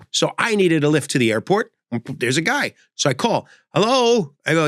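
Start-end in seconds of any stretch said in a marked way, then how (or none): 3.7-4.3 put-on old man answering. Elderly driver answering phone.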